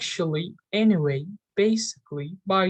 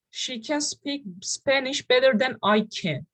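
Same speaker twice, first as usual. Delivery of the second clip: "She can speak Spanish better than I can" with key words pitched up; stressed key words; 3 semitones higher than usual. Shown as a demonstration. Teacher demonstrating stress to learners, key words higher-pitched. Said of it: "with a more high-pitched voice".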